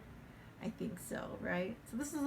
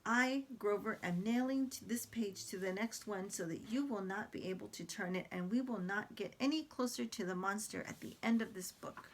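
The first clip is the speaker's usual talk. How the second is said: Grover voice. Acted. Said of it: "very, very dramatic".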